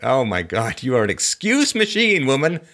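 exasperated. Real, not acted. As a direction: throw up your hands in disbelief. Exasperated host scolding caller.

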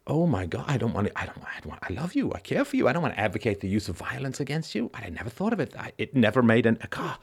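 a hammed-up apologetic epiphany; mock dawning horror. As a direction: act out someone realizing with shock, some of it breathed. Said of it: "If they're like".

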